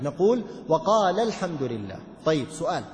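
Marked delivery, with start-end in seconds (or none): 0.7-2.0 وقال linked into الحمد, the long ا dropped; joined reading demo. Shown as a demonstration. Teacher shows the alif falling in joined reading. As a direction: run وقال straight into الحمد without the ا. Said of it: "تسقط هذه الألف".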